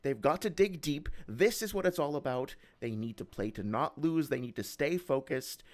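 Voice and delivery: lightly voiced sportscaster banter; play-by-play hype, a bit lighter; sports announcer voice. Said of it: "announcer voice".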